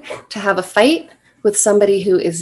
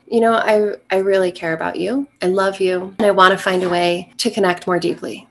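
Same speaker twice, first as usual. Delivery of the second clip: offering comfort. Shown as a demonstration. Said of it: "You are offering comfort".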